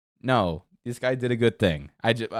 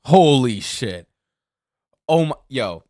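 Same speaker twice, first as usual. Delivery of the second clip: louder, slow stunned exclamation; shocked; 7 dB louder, slower than usual. Real, not acted. Streamer stunned by the story, slow shocked exclamation. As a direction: let the shock land slowly.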